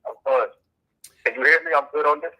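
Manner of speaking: muffled prison phone line; payphone call. Real, not acted. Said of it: "it's a little muffled".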